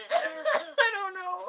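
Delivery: very high, squeaky laughing wail; helpless laughter. Real, not acted. Streamer cracking up over people being weird, helpless laughter. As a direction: squeal the words slowly through real laughter.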